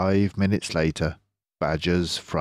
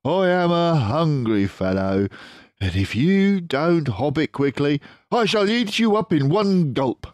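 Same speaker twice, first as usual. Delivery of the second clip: menacing Mister Fox; 11 semitones higher, 5 dB louder than usual. Acted. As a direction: sweetly threaten to eat him.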